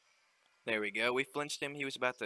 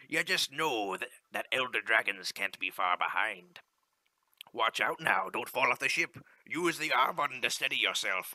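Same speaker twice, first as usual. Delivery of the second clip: louder, hearty sea captain reading the in-game lines; ship captain; 4 dB louder than usual. Acted. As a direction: call it out like a captain on deck. Voices the ship captain NPC.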